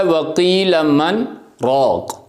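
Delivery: Quranic recitation with a brief silent catch after مَنْ, breath held, then رَاقٍ; recited with a sakta. Shown as a demonstration. Teacher demonstrating a sakta to students, recited with a held pause. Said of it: "کہتا ہے".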